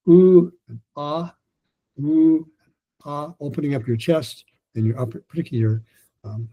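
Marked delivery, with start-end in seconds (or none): 0.1-3.3 slow, drawn-out vowel sounds; breathing exercise. Shown as a demonstration. Coach showing warm-up vowels for breath, slow and drawn out. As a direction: stretch out ooh and ah slowly. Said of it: "the last one is for breathing".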